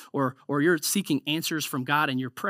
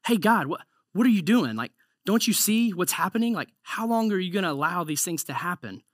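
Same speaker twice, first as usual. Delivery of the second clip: loud, higher, exasperated plea; Habakkuk pleading with God; 5 semitones higher, 4 dB louder than usual. Retold or imitated. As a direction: demand answers from God, pitched up and pushing. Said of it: "Habakkuk is like".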